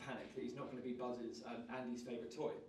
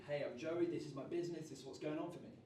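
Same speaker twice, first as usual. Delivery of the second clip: high energy; 2 semitones higher than usual. Shown as a demonstration. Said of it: "very high energy".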